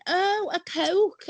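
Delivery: high, drawn-out mock realisation; imitating dawning comprehension. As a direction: play the woman finally getting it. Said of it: "And she went".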